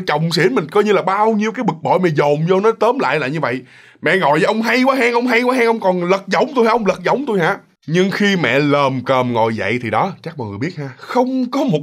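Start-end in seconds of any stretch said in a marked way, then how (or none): 4.0-7.6 higher-pitched indignant confronting; retold wifely telling-off; annoyed scolding. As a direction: challenge him crossly, voice raised in pitch. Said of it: "mẹ nói mẹ bực".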